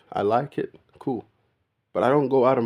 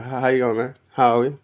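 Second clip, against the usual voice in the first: louder Australian "how you going", called out; loud Australian greeting; 3 semitones higher, 5 dB louder, faster than usual. Retold or imitated. Showing how locals greet, a loud Australian hello. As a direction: greet a mate across the room, Aussie style. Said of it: "That's how we speak now, yo, man".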